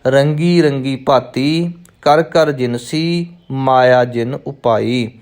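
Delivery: ਰੰਗੀ ਰੰਗੀ ਭਾਤੀ, ਕਰ ਕਰ ਜਿਨਸੀ, ਮਾਇਆ ਜਿਨ ਉਪਾਈ in three even groups; grouped in threes. Shown as a demonstration. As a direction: break after ਭਾਤੀ and after ਜਿਨਸੀ. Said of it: "ਤਿੰਨਾਂ ਤਿੰਨਾਂ ਦਾ ਜੋੜਾ ਬਣਾ ਕੇ". (ਭਾਤੀ ਤੇ ਜਿਨਸੀ ਤੋਂ ਬਾਅਦ ਵਿਸ਼ਰਾਮ)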